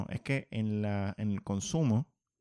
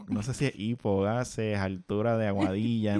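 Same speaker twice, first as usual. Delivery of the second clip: talking through hiccups; interrupted by hiccups; 3 dB louder than usual. Real, not acted. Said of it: "tengo hipo". (con hipo)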